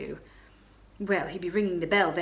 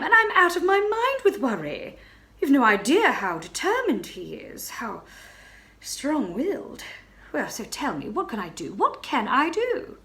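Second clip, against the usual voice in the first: anxious plea; 6 semitones higher, 5 dB louder than usual. Acted. Baroness pleads for help, frantic.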